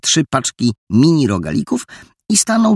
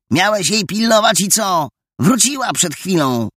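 wołanie chłopaków; 9 semitones higher than usual. A narrator's reading. Chłopaki wołają jeden przez drugiego.

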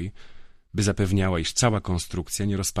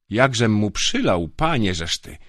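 put-on louder, boastful drunk voice; drunken bragging; 3 semitones higher, 6 dB louder than usual. Young drunk guard boasting to Grifo, loud and proud. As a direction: crow about the beating.

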